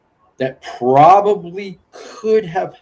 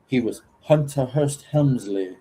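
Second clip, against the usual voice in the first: Hunter Hearst Helmsley impression; 5 dB quieter than usual. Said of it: "that was a nice accent, brother".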